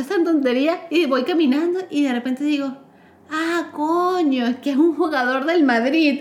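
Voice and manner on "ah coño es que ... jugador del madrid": slow realization. Retold or imitated. Sudden realization who he was.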